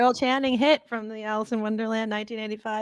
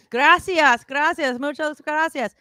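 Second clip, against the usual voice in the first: mock pop star thanks; 4 semitones higher, slower than usual. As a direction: overdo the gracias like a star on stage. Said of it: "You know".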